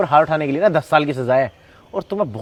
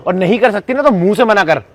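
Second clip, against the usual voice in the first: higher, louder furious scolding; angry shout; 4 semitones higher, 5 dB louder than usual. Acted. Son yells at ex for slapping his mother, angry shouting. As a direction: tear into her for slapping mom.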